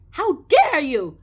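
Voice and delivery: loud, slow hammed-up indignation; mock outrage. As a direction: act scandalized. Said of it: "they're like".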